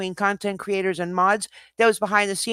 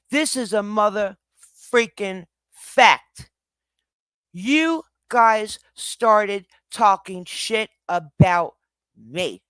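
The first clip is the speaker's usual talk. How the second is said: slow loud emphasis; 4 dB louder, slower than usual. Real, not acted. Emphatic rant at chat.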